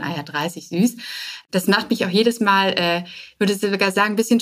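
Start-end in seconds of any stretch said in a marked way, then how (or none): 0.0-1.0 mocking. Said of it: "die jetzt lachen werden".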